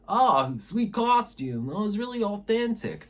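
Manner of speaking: a hint of West Virginia accent. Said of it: "I guess that's a West Virginia accent that I just did".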